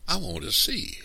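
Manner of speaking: lightly voiced eager small boy; Little Man. A narrator's reading. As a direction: pitch it high like a child. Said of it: "Little Man announced".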